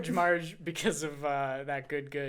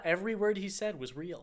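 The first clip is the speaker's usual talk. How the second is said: whispering; 2 semitones higher, 5 dB quieter than usual. Pretend. Whispered joke aside.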